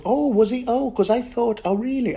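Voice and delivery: high, airy back-and-forth; mock surprise. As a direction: play the confused reader.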